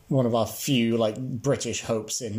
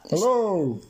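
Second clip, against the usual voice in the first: booming voice; 7 semitones higher, 3 dB louder than usual. Retold or imitated. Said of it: "a man's voice booming down the dark passage".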